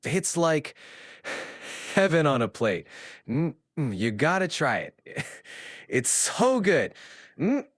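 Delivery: drawn-out dreamy food talk; savoring. Acted. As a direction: relish each word like rich cake. Savoring dessert.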